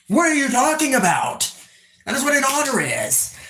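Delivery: high-pitched, incredulous protest; indignant protest. Real, not acted. Indignantly defends otter impression.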